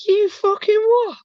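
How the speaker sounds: high, drawn-out mock outrage; retold comeback. Retelling his comeback to the staring dog walker, incredulous mock outrage.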